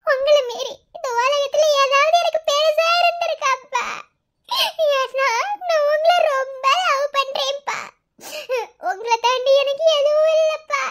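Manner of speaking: slow tearful declaration of love for father; emotional plea to father. Acted. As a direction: plead through tears, slowly.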